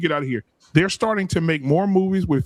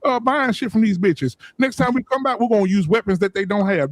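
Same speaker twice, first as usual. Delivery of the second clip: a hint of a scheming trader, slightly higher; lightly voiced white trader; 4 semitones higher than usual. Retelling history to coworkers, mild mock trader voice. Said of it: "the white man got smart and said".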